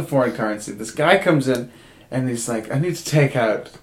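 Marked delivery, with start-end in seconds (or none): 2.7-3.7 put-on slow, understated British accent; lightly put-on British voice at the counter. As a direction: imitate a British customer, unhurried. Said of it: "he says it in an accent".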